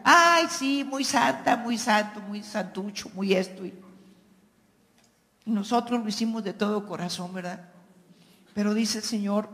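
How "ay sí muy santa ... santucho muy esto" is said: mocking taunt. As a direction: sneer it like a relative teasing the pious. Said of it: "y luego de repente la burla". (imitando la burla de un familiar)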